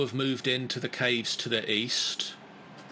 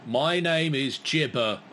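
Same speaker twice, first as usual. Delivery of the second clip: monster head voice; 4 semitones higher than usual. Acted. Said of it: "says one head".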